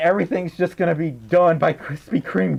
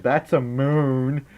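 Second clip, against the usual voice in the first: slow; much slower than usual. Shown as a demonstration. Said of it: "I just said".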